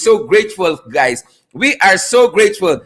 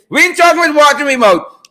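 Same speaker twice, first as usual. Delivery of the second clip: Caribbean dialect; 5 semitones higher, faster than usual. Shown as a demonstration. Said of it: "We are not talking with water in our mouth".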